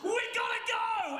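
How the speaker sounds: high-pitched frantic order; urgent retold shout. Morgan urging the buyer to flee, frantic shout. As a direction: hurry someone out in mock panic.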